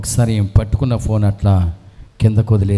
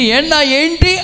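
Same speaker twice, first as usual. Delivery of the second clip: casual greeting; slower than usual. Retold or imitated. Greeting a drunk acquaintance.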